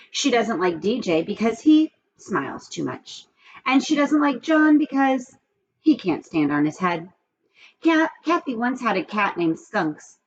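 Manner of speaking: put-on lively storybook reading for kids; reading aloud to children. A narrator's reading. Teacher reading a chapter book to her class, animated storytelling. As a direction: tell the story to the class with expression.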